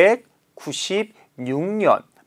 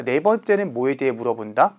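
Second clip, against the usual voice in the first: ordinary talk, nothing marked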